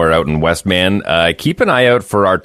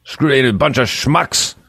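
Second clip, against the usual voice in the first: mock defiant quote; 9 semitones higher, slower than usual. Reads out Schwarzenegger's angry quote.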